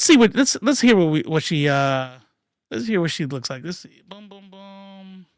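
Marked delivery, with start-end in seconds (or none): none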